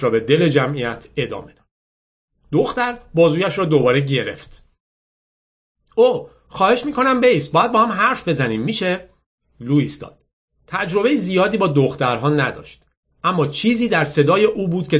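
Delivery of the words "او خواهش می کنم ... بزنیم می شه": higher-pitched coaxing plea; pleading girl. Acted. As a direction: beg him lightly to stay and talk. Girl pleads with Lou to talk. (دختری با لحن خواهش و صدای زیر)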